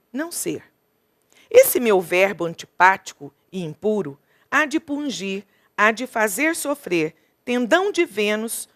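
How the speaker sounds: measured, unhurried recitation of a modern sonnet; reciting a sonnet to the class; poem reading. Acted. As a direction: let each verse fall and pause. Reads Drummond's sonnet aloud.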